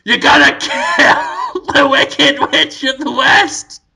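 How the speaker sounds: slow, hammed-up wizard pronouncement; lightly voiced great and powerful Oz; Willem Dafoe. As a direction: play a giant head giving orders. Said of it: "So Willem Dafoe's big head says".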